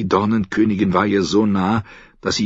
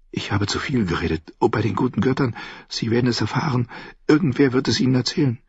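put-on frightened girl; 6 semitones higher, faster than usual. Girl fears she said too much.

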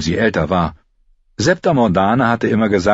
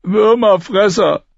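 high, slow, louder spat insult; 14 semitones higher, 5 dB louder, slower than usual. A narrator's reading. Lommi spits an insult at Arya, contemptuous. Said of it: "Lommi spuckte aus".

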